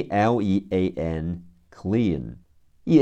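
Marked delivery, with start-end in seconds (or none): 2.8-3.0 "E" held as a long ee; long vowel. Shown as a demonstration. Teacher sounds out E A in clean, long drawn-out "E". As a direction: draw out "E" as one long ee. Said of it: "E A组合读长音".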